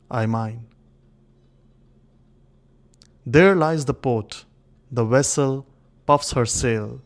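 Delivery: measured, solemn poetry reading with long pauses; stately dramatic recital of an old king's monologue; poem recitation. Acted. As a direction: recite it as verse, phrase by phrase, leaning on key words.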